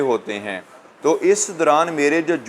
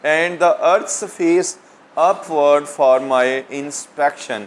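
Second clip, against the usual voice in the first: slow verse reading in spaced phrases; poem recitation; much slower than usual. Real, not acted. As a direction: read it out word by word, slowly. Reads poem line aloud to students.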